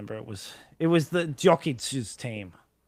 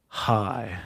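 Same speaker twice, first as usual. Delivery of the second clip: Markiplier; 5 semitones lower, slower than usual. Acted. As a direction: do a lightly voiced Markiplier greeting. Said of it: "This is my best Mark impression".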